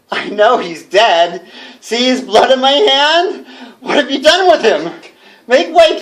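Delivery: rising hysterical accusation; unhinged. Acted. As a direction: confront the ghosts, half mad. Unhinged confronting imagined gentlemen.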